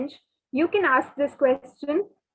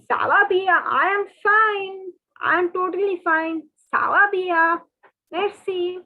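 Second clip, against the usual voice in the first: cheerful reply; 5 semitones higher than usual. Pretend.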